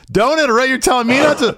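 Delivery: mocking his tone. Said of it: "same tone you had with Paul".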